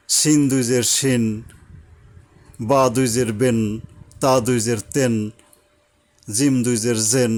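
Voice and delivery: each letter named, then the nasal en sound joined on; spelling out Arabic sounds. Shown as a demonstration. Teacher spelling tanween with zer for the class. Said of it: "জের দিয়ে বলার চেষ্টা করি".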